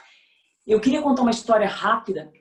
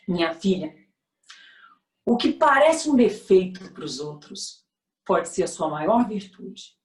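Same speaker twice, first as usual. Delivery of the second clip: tender mother; 2 semitones lower than usual. Retold or imitated. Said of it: "sorriu e disse assim".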